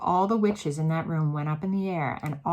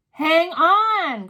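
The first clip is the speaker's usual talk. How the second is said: loud cry; 10 semitones higher, 11 dB louder than usual. A narrator's reading. Mildred crying out to the room, loud and high. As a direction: Hang on high and loud, cried out. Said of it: "cried the witch called Mildred".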